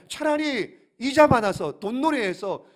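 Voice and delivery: exasperated master scolding a servant; acted rebuke. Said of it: "그러면서 책망하는 거예요". (주인이 다그치며 책망하는 말투)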